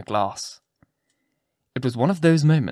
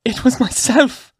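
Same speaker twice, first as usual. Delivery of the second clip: high, loud, drawn-out cry; shuddering cry; 12 semitones higher, 6 dB louder, slower than usual. A narrator's reading. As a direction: cry out in anguish, pitched far up. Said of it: "cried Hester, shuddering".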